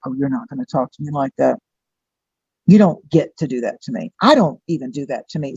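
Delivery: low, firm mock rebuke; stern boundary-setting. Aquarian energy refusing to be talked down to, stern.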